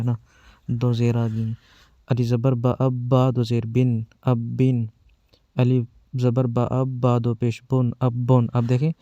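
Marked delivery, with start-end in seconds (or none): 2.1-8.5 slow, spelled-out syllable drill; firm, paced spelling recital for children; drill reading. Shown as a demonstration. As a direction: read each sound firmly with pauses, like a teacher drilling kids. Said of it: "پہلے آپ کو ایسے پڑھا رہا ہوں".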